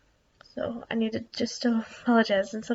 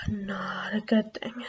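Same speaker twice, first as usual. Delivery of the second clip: slow whisper; 2 semitones lower, slower than usual. Real, not acted. Whispering, parents asleep.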